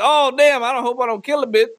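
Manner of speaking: hammed-up sudden fright; mock panic. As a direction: yelp of mock alarm. Panicked man.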